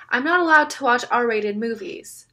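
loud high distressed cry; screamed. A narrator's reading. Kid behind Jonah upset by the images, loud cry. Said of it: "a kid behind Jonah screamed".

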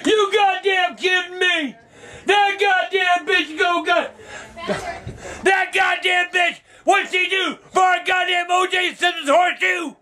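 real disbelief, yelled at the TV; can't believe the verdict, shouting; outraged yelling. Real, not acted. Outraged at not guilty verdict.

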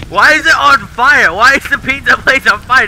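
alarmed complaint. Pretend. Alarmed customer calling out fire.

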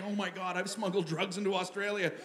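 hushed mock horror; softly aghast, as if just caught; white-hot panic. Traveler realizing what he has smuggled, understated mock panic. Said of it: "Panic, just white hot panic".

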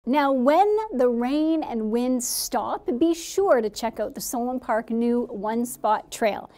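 announcer read. Acted. Reads promo segment on air.

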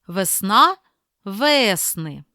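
«Весна» slowly with the stress on НА, then «весни» with the stress on ВЕ; «весна́ — ве́сни» with the stress moving; stress check demo. Shown as a demonstration. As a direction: contrast where the stress falls in «Весна» and «весни». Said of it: "перевіряємо наголосом".

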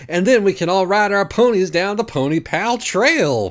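high, loud, gushing tearful joy; excited blubbering. Acted. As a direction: gush with wet excitement. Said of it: "Pawnee blubbered excitedly".

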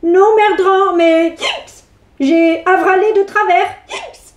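talking through hiccups. Acted. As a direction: hiccup between words. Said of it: "tu as le hoquet".

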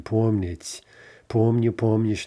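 помнить, помню, помнишь all stressed on "пом"; stem stress. Shown as a demonstration. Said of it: "that's gonna be stem stress".

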